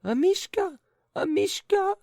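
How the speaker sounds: very high, loud anguished call; lady crying out. A narrator's reading. Lady crying for her lost dog, very high and loud. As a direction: wail the dog's name. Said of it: "cried the lady".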